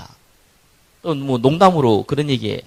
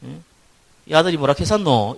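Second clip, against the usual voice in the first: a light Gyeongsang dialect question, 했었노 rising; Gyeongsang accent; 4 semitones higher than usual. Retold or imitated. Man on the subway answers the Seoul passengers in a casual Gyeongsang accent. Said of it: "이 경상도 사람이".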